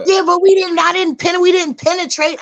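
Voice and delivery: high, loud mock protest; imitated flustered denial; defensive excuse.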